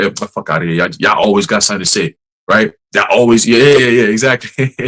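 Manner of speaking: low, brushing-off sneer; mock dismissive scoffer. Preacher voicing people who scoff at prophets, low and sneering. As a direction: wave off the prophets lazily.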